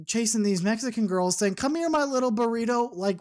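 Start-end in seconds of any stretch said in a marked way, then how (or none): 1.6-2.9 lightly done Donald Duck squawk; a hint of the cartoon duck. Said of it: "the worst Donald Duck impression I've ever heard".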